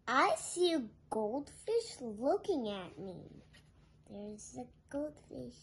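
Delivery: ordinary delivery, nothing marked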